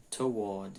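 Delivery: "toward" as two syllables, "tuh-WAWD"; British pronunciation. Shown as a demonstration. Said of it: "No inglês britânico". ("toward" em inglês britânico, soando "tu-uód")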